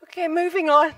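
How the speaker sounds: laughing through moving on; the room's amused brush-off; amused mock brush-off. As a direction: say it with a laugh, embarrassed. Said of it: "Everyone just stopped and like".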